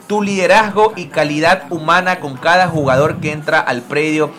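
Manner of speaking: declaimed reading, phrase by phrase; tribute read aloud. Acted. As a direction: read a teammate's homage, slowing into the final words. Reads a teammate's tribute aloud.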